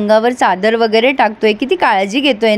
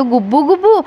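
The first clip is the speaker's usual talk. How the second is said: "गुब्बू गुब्बू" asked back with a rising, higher pitch; puzzled echo; 4 semitones higher than usual. Acted. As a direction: repeat "गुब्बू गुब्बू" as a baffled question. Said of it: "Shashank echoes her word".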